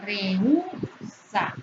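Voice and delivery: Rehúsa drawn out slowly by syllables, weight on ú; stress on Rehúsa's ú. Shown as a demonstration. Teacher showing the hiatus in Rehúsa, stressed ú. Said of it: "es una excepción".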